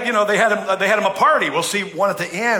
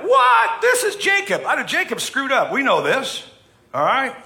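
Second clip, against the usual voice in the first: high, loud disbelieving outburst; mock outrage at Jacob's mistake; shocked listener; 8 semitones higher, 3 dB louder than usual. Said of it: "You're like".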